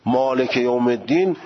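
مالک یوم الدین in a Persian accent; non-Arabic accent. Shown as a demonstration. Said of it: "اصلاً لهجهٔ عربی نیست".

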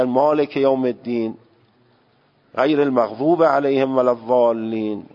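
مالک with an open "e", maleke yawm; Persian pronunciation. Retold or imitated.

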